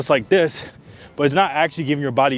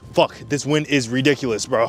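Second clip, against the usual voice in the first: out of breath. Real, not acted. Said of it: "if I sound like I'm out of breath".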